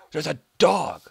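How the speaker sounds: high, loud cry of delight; excited yell at a dog; excited shout. Real, not acted. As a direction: shout it out, thrilled.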